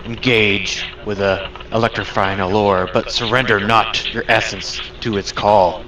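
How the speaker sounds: lightly voiced booming spirit; a hint of a grand storm god proclaiming. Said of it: "You hear a booming voice".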